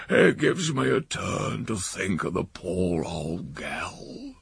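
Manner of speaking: hushed, mournful whisper; mock-mournful old uncle whispering; sad whisper. Uncle sad over lost pig.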